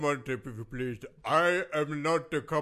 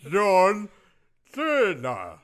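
JOHN said loud, then Cena; 3 semitones higher, 5 dB louder, much slower than usual. Shown as a demonstration. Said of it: "repeats the name to correct".

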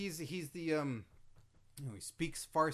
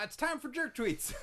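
segment intro with a lift; hammed-up show intro call; announcer intro; 10 semitones higher than usual.

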